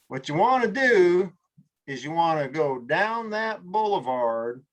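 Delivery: slow, unhurried Southern drawl; Southern local giving directions. Retold or imitated. Local in Southern Virginia giving directions, slow drawl. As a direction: take your time like a Virginia local. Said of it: "Southern Virginia and getting directions".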